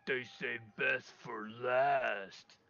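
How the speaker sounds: slow, drawn-out ogre line. Acted. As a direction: say it as a looming ogre, slowly. Ogre looms and taunts the player.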